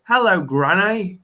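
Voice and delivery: put-on slow, high little-boy Cockney; Cockney accent. Four-year-old greeting his granny in Cockney accent. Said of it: "I had the proper fucking Cockney accent".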